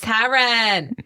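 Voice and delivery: Taryn said with Boston accent, dropped r. Shown as a demonstration. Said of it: "try to say it with a Boston accent".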